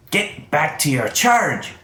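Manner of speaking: exasperated boss giving orders; stern order. Acted. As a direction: send them back to work, drawn out. Pao orders the character back.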